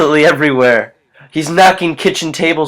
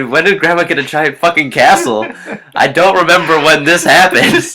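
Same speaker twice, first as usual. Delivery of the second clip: mock bewildered outburst. Co-host as the girl questioning Grandma's castle, mock bewildered outburst. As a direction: protest it in hammed-up disbelief.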